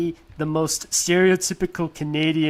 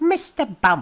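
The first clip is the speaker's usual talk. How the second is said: high, kids' cartoon character voice; 6 semitones higher than usual. Showing how the character sounded in the UK version: imitating the UK Mister Bump. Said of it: "that's how he sounded like".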